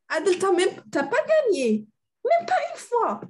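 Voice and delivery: teasing. Acted. Teasing a student who lost.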